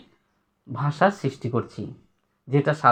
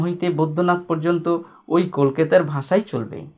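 reading a text aloud; 3 semitones higher than usual. Acted. Reads essay passage to class.

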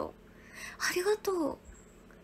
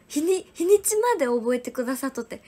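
ordinary delivery

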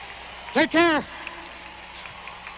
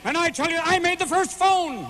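higher, insistent boast; mock Al Gore; 7 semitones higher than usual. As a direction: brag like Al Gore. Playing Al Gore bragging.

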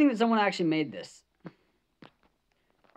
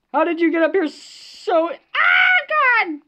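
high, loud shriek breaking into a wail; real terrified cry; crying-out panic; 7 semitones higher, 6 dB louder, slower than usual. Real, not acted. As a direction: yell as it reaches you. Monster flies up to him.

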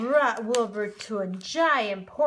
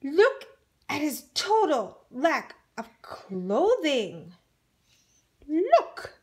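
insistent look; 4 semitones higher than usual. Acted. Mole rats insisting.

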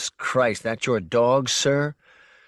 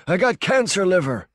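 higher, louder, flat shout of a deaf man; deaf man's flat loud voice; 8 semitones higher, 3 dB louder than usual. Acted. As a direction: shout it as if you can't hear yourself. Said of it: "with a deaf man's flat, high volume".

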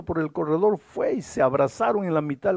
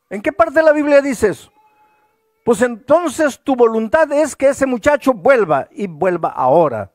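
loud, high, impassioned pleading to God; fiery preacher's prayer, much higher and louder; fervent prayer; 8 semitones higher, 7 dB louder than usual. Retold or imitated. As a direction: cry out to God with burning faith. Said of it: "él oraba con tanto fervor".

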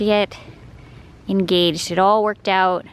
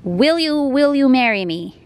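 playful high reading of the note; 6 semitones higher, 4 dB louder than usual. Retold or imitated. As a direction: read it out like a grand question. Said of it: "You put an exclamation mark".

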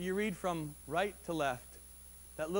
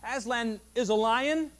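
Susan; 3 semitones higher, 5 dB louder than usual. A narrator's reading. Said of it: "Susan asked".

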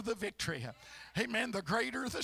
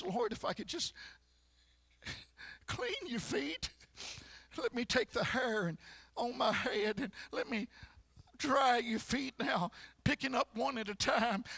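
the weeping woman at Jesus' feet; 2 semitones higher than usual. Acted. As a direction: whisper the tears then cry out the shame. Preacher acting the weeping woman.

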